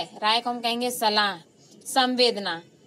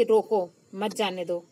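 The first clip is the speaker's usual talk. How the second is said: "रोको" on its own, then lower "मत जाने दो"; pause after रोको; 4 semitones lower than usual. Shown as a demonstration. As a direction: break after रोको, let "मत जाने दो" fall. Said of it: "मेरे कहने का मतलब है".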